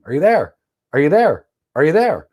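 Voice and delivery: lightly voiced database pinging its partner; mock heartbeat call. Teaching failover, a database lightly calling its partner.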